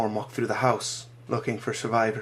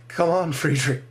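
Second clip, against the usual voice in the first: higher, louder, breaking plea; desperate pleading; 6 semitones higher, 5 dB louder than usual. Acted. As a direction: beg him to wake up.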